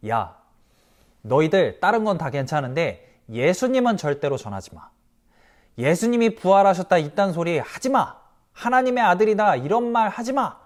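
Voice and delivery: mock-threatening religious leader. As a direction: warn them off like a bullying elder. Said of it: "막 협박을 해요".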